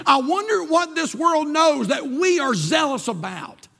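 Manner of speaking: rolling preacher's list, pitched above the chat; preaching. Acted. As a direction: build the examples like a pulpit preacher.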